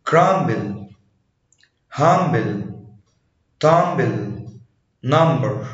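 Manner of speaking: "crumble", "humble", "tumble" with a clear b after the m; sounded B after M. Shown as a demonstration. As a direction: say number with both M and B sounded. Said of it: "في استثناءات للقاعدة دي".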